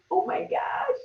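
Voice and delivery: high breathless whispered gasp; shocked whisper. Pretend. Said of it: "She just realized".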